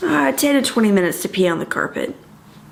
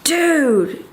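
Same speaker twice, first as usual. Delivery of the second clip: exclamation; 6 semitones higher than usual. Retold or imitated. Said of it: "I was just like".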